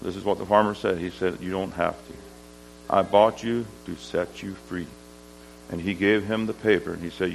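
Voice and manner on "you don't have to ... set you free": soft, low and kindly; gentle reassurance. Retold or imitated. Farmer freeing the slave he bought, gentle reassurance. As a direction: release him quietly and tenderly.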